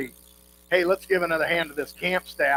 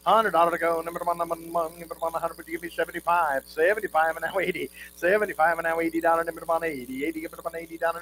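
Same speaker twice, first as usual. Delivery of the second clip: rapid rhythmic bid chant; auctioneer; faster than usual. Real, not acted. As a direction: rattle off the bids in a singsong roll.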